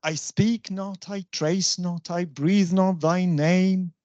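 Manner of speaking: measured beat on SPEAK, TRACE, BREATHE, with light syllables either side; amphibrach rhythm. Shown as a demonstration. Teacher reciting an amphibrach example, measured rocking stress. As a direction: slowly swing through weak-STRONG-weak groups.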